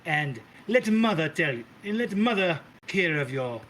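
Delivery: a hint of a doting, theatrical matriarch calling everyone darling; sweet-talking diva hostess, lightly played; lightly voiced grand Mother. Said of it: "And she goes".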